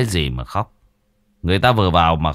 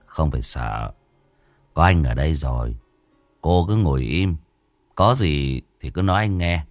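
put-on calm a frightened girl gently; reassuring; 3 semitones lower than usual.

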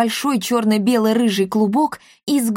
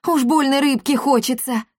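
higher, whiny pleading; plaintive mew; 6 semitones higher than usual. Acted. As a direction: beg like a hungry cat. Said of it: "жалобно промяукал Шнырь". (жалобно, по-кошачьи)

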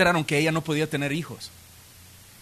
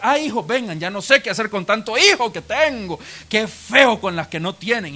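mock complaint, raised and pointed; mean gloating; 2 semitones higher than usual. Penina parading her children past childless Ana, mock-weary gloating. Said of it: "porque era mala además".

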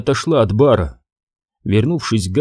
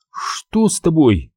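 worried question; 5 semitones higher, slower than usual. A narrator's reading. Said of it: "спросила Кассандра".

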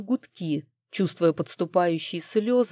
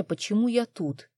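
ordinary talk

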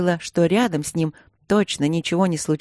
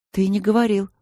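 surprised; 4 semitones higher than usual. Acted. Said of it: "удивилась Василина".

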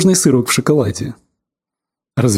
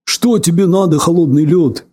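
X-Men voice. Pretend. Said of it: "Спросил голосом Иксмена".

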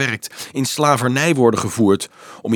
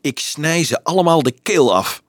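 higher-pitched belligerent threat; fierce, raised-pitch threat; combative growl; 4 semitones higher than usual. Acted. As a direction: threaten it like a girl spoiling for a fight. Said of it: "gromde een strijdlustig meisje".

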